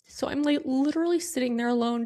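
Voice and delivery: high, tearful voice, really upset; on the verge of tears. Real, not acted. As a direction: keep talking through rising tears. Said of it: "I'm gonna cry".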